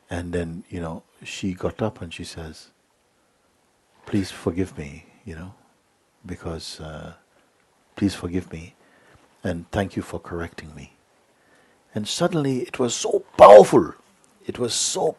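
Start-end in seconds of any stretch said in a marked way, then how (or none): 4.0-10.9 humble apology. Retold or imitated.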